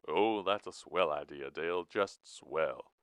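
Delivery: dry, emphatic mock approval; sarcastic. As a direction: drag out "just swell" with sarcasm. Sarcastic reply to Dale's plan.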